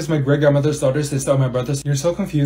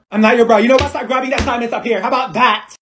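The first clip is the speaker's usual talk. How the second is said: high, loud telling-off; hammed-up cross substitute; indignant scolding; 5 semitones higher, 3 dB louder than usual. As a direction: scold the student, worked up. Substitute snapping at student.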